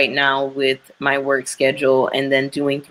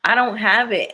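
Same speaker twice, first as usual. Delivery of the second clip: exasperated; 6 semitones higher than usual. Retold or imitated. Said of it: "I'm like".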